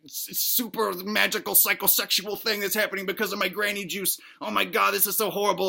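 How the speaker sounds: whining mock-horrified kid voice; distressed kid. Boy trapped in the game laments his fate, mildly distressed. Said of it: "that's what the kid sounds like".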